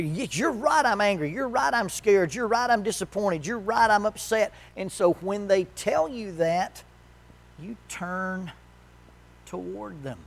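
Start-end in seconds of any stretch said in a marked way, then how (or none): 0.0-4.5 higher, louder, each admission tumbling out; upset spouse unloading feelings on the listener. Retold or imitated. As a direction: spill it all, agreeing at every step.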